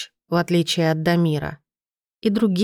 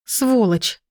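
sobbing cry; 4 semitones higher than usual. Acted. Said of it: "задыхаясь от слёз, крикнула она".

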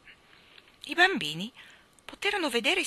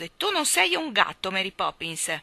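offended grumble; 5 dB louder than usual. Acted. Boy trying to start an argument with his nanny. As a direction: pick a fight to forget the pain. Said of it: "egli brontolò offeso".

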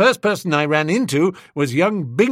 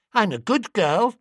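put-on little girl boasting; 8 semitones higher than usual. A narrator's reading.

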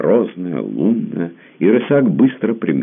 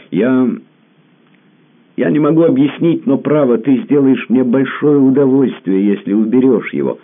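urgent plea; 12 semitones higher, 6 dB louder than usual. A narrator's reading. He begs, voice rising.

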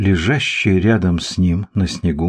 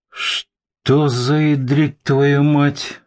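astonished; 6 semitones higher, much slower than usual. Acted. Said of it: "изумился Борис".

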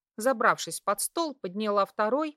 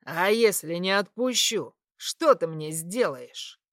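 taunting; 3 semitones lower, 4 dB louder than usual. Acted. Suitor taunts her cruelly.

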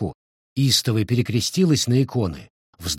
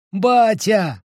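put-on much higher, louder child's shout; louder repeat of the call; 11 semitones higher, 4 dB louder than usual. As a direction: call him again, even higher and louder. Дети зовут вернувшегося отца. (ещё выше и громче зовёт отца)

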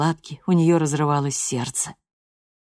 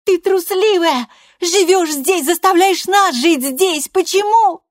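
much higher and louder, near shouting; furious threat; 8 dB louder, slower than usual. A narrator's reading. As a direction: threaten her mother at full pitch. Loredo accuses her mother.

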